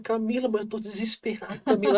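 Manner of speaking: high-pitched mock desperate plea; retold desperation. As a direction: re-enact a panicked phone call to a partner. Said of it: "bateu dois desesperos".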